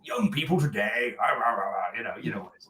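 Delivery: hint of a hammed-up Stoke accent; aping a Stoke accent. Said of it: "probably aping you a little bit".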